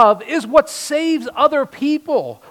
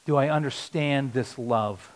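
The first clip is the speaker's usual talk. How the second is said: quiet reflection; 9 semitones lower, 7 dB quieter, slower than usual. Shown as a demonstration. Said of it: "I want you to ask this question".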